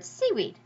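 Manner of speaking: "seaweed" with both "sea" and "weed" stressed; even double stress. Shown as a demonstration. Teacher giving spondee example, "seaweed" evenly stressed. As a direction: keep weight on both halves of "seaweed". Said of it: "stay up on those words".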